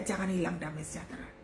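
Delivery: very soft, low reassurance; Holy Spirit's hushed word. Retold or imitated. Holy Spirit answers the devil's intimidation, hushed and low. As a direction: drop to a gentle near-whisper. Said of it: "Roh Kudus begitu cepatnya".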